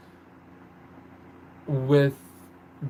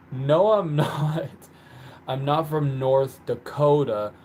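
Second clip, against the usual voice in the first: louder, firm stress on "not"; emphatic correction; 4 dB louder than usual. Real, not acted. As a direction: correct them, leaning hard on "not". Correcting a wrong guess of home state.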